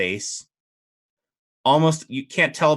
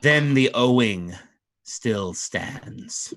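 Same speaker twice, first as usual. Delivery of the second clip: regal fey duke; much slower than usual. Acted. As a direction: speak as an ancient fey lord.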